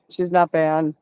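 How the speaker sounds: winded, short of breath; breathless from talking. Real, not acted. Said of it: "Sorry, I'm running out of breath".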